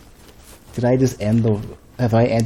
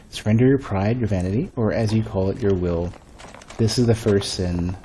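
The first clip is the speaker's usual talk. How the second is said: lightly performed lore reading; solemn text reading. Acted. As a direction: read out a sacred inscription, letting phrases fall away. Reads game text aloud.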